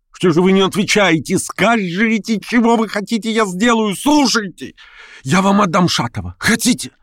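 desperate bargaining to win him over; frantic pleading. A narrator's reading. Verkhovensky begging Stavrogin in the street, high and frantic.

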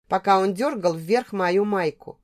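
usual speaking voice

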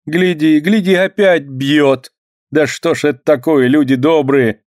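high, agitated alarm. A narrator's reading. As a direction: cry out in alarm. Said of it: "волнуется прачка".

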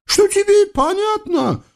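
high, singsong eastern tyrant voice; comic sultan. Acted. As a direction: play a pompous, childish sultan. (высокий певучий голос капризного султана)

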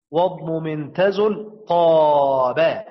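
slow recitation of the rhyming rule line; teacher recites a rule from the didactic poem; reciting verse. Shown as a demonstration. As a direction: chant the poem line slowly and deliberately. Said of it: "قرأ المرموز له".

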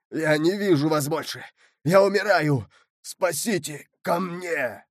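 pleading for his life in the water; desperate drowning man. Acted. Mordaunt begs the count to save him, desperate.

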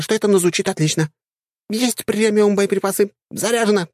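put-on high, squeaky girlish chatter; squeaky dryad.

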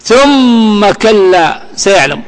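very slow, drawn-out chanted verse; Quran recitation. Acted. Teacher recites the verse before parsing it, slow chant. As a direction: stretch every syllable as in tajweed.

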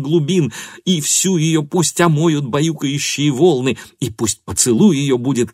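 rhapsodize, swept up in the fantasy; carried away. Acted. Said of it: "Она ужасно увлеклась".

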